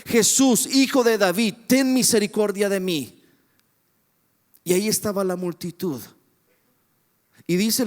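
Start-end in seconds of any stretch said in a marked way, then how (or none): 0.1-3.2 mildly raised pleading call; crying out. Acted. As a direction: call out for mercy, falling at the end. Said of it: "ese hombre empezó a gritar".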